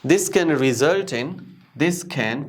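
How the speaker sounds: This can very slowly, with a puffed K; aspirated sounds. Shown as a demonstration. Teacher modelling for learners, aspirated can. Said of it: "because of aspirated sounds".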